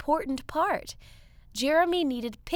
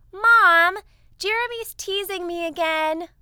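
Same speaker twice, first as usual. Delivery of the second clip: whiny tattling; 7 semitones higher, 7 dB louder than usual. Acted. Sister complains to Mom.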